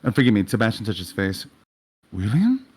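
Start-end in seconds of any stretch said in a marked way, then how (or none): 2.1-2.7 rising, higher questioning name; surprised recognition. Acted. Sebastian recognising William at the club, surprised recognition. Character startled to see William.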